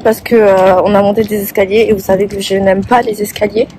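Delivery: breathless from climbing the stairs; out of breath. Real, not acted. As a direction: talk while catching your breath. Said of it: "Je suis essoufflée".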